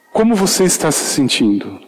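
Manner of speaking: a hint of gentle concern; gentle caring tone. Shown as a demonstration. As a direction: ask it with tenderness. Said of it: "na verdade, soa assim".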